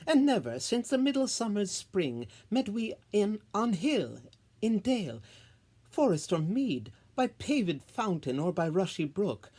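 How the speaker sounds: a queen's anguished tirade against her husband; impassioned outburst. Acted. Titania's passionate reproach.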